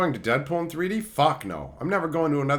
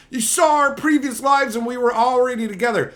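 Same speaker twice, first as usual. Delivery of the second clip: mocking Martin Lawrence; 8 semitones higher, 5 dB louder than usual. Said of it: "going on and on about this stupid fucking delusion".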